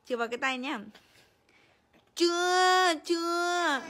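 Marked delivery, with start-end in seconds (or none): 2.1-3.8 loud playful scold; hammed-up loud scold; mock scolding. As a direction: pretend to smack the baby's hand. Mock punishing baby.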